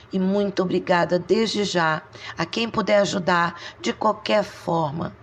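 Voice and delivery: quiet, heartfelt plea to viewers; soft sincere appeal. Real, not acted. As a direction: speak softly from the heart.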